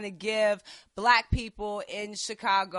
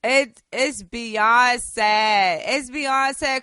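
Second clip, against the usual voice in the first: emphatic outburst; 8 dB louder, much slower than usual. Real, not acted.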